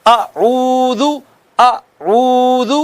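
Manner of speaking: اعوذ slow with rounded lips; correct aoodh. Shown as a demonstration. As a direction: draw out اعوذ. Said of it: "یہ کام ہم نے نہیں کرنا". (اعوذ آہستہ، ہونٹ گول)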